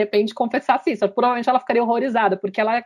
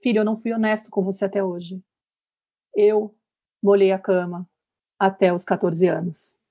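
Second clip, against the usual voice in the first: father's confession; 2 semitones lower than usual. Retold or imitated. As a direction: open up gently to your son. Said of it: "o pai vai e confessa". (confissão suave e lenta do pai)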